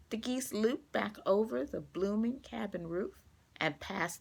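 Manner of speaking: clear, gentle storybook reading; reading to children. A narrator's reading. Teacher reading a picture book to her class, gentle storytelling. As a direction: read it like story time for young kids.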